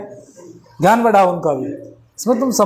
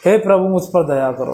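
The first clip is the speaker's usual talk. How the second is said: lower, pleading cry to God; pleading prayer; 3 semitones lower than usual. Shown as a demonstration. A person in trouble begging God for mercy, pleading. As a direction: beg the Lord for mercy. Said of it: "भाव देखो इसमें".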